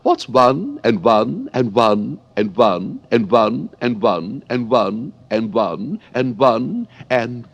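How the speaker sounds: high, slow, singsong quizzing voice; White Queen. Acted. White Queen quizzing Alice on sums, high slow singsong. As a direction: drag out the counting like a dotty old queen. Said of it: "the White Queen asked".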